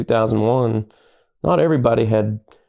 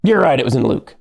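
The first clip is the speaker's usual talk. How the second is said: laughing quote. Retold or imitated. Quoting captain, laughing.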